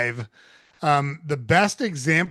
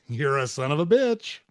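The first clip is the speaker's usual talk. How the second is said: same words in a light, easy voice; friendly insult. Retold or imitated. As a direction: say it like a fond joke. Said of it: "less important than how you say it".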